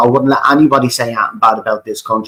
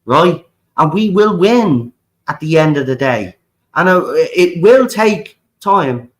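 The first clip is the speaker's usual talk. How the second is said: passionate rant; 4 semitones higher than usual. Real, not acted. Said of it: "Sorry about me little passionate rant".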